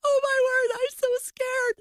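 very high, squeaky panic; hammed-up scared squeal at scurrying bugs; acted fright. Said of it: "I was so scared".

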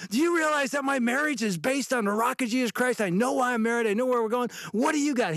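high, fervent testimony voice; bold proclamation. Retold or imitated. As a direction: preach it to the stranger with conviction. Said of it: "he wasn't combative".

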